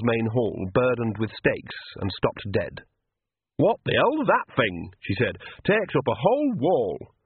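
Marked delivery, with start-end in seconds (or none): 3.6-7.1 put-on startled old woman. Nanny startled.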